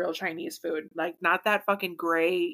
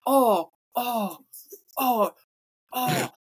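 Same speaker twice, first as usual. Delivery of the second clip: swooning, hammed-up British foodie; exaggerated British delight; mock British accent; 4 semitones higher than usual. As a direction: moan over it in fake British. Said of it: "You can talk British".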